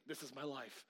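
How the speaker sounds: soft, low resigned husband; understated, dropped-down aside. Retold or imitated. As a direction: imitate a husband quietly giving up. Quotes ignored husband's resigned comment.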